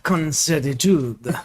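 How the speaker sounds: "con certitude" in a slow mock French accent. Shown as a demonstration. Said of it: "with my French accent".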